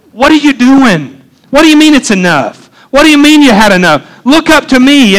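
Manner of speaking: preacher lightly acting out God's challenge; mild exasperated challenge. God confronts the complaining Elijah, mildly exasperated.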